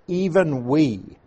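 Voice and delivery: "even we" drawn out slowly with weight; emphasis on EVEN WE. Shown as a demonstration. Teacher showing the Greek's triple emphasis, "even we" stressed. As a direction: lean slowly on both words, "even we". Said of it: "triple emphasis on the words".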